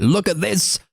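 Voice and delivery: high-pitched mock alarm, vowels stretched; hammed-up frantic woman pointing out a wonder; frantic insistence. Acting out Nora insisting to others.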